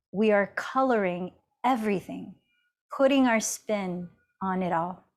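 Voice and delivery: deliberate reading with pauses between phrases; emphatic, spaced-out recitation of a quotation; measured quote reading. Acted. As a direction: read out a wise saying, weighting the key words. Reads a quote aloud.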